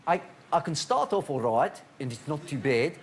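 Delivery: attempted South African accent drifting into Dudley; wobbly South African turning Dudley accent; South African accent slipping into Dudley. Shown as a demonstration. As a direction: start South African, end up sounding from Dudley. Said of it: "suddenly I'm from Dudley".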